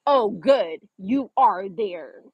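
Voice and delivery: drawn-out, knowing "you are there"; slow mock relief. Boyfriend on FaceTime, slow mock relief. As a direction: drag out the last words like a smug reply. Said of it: "this was his response".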